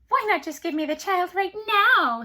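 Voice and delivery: high, loud cackling voice; cackling imp. A narrator's reading. Little man mocks queen, high cackling voice. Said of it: "he cackled".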